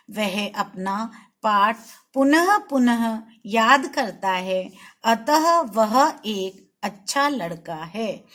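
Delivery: put-on reading to children, slow and clear; slow reading aloud. Shown as a demonstration. Teacher reads the example to the class, slow and clear. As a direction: read each word slowly for young pupils.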